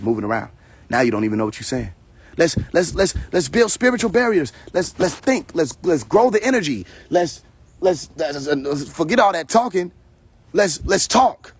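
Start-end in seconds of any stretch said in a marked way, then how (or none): 2.4-11.5 lightly mocking a woman's new-age voice; mocking her spiritual talk. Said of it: "when she say spiritual barriers".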